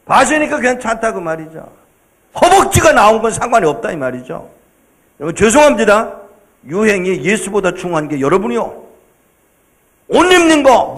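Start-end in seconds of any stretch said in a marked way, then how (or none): none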